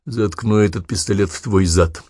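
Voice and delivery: calm. Acted. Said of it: "спокойно проговорил Луи".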